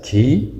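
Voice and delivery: "کی" said ki, with an i; kasra on kaf. Shown as a demonstration. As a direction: sound out "کی" as a k plus i. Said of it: "زیر داشته باشه کسره". («کی» کاف با زیر)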